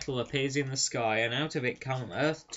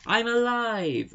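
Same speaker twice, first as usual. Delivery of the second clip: high, loud, drawn-out cry; mock exclaim; 10 semitones higher, 5 dB louder, slower than usual. Woman kissing the hero, hammed-up exclaiming. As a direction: belt it out like a revelation. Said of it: "snogs him and says".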